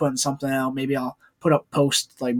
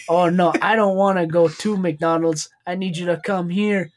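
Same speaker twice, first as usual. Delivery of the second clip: imitated Asian accent; 3 semitones higher than usual. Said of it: "his Asian accent he puts on".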